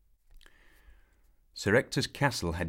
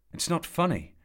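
high, louder protest; indignant; 12 semitones higher, 6 dB louder than usual. A narrator's reading. Arthur protesting to the old man, high and indignant. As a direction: snap back hurt.

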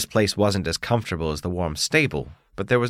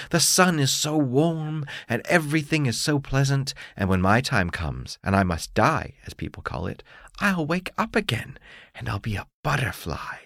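caterpillar voice; 6 semitones higher than usual. Acted. Caterpillar dreams aloud.

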